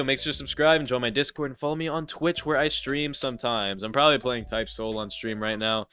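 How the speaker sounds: stuffy blocked nose; congested. Real, not acted. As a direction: talk through a stuffed-up nose. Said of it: "which is why I sound kinda congested".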